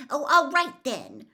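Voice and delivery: loud, sharp snap; snapping. A narrator's reading. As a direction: snap at him irritably. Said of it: "Hermione snapped".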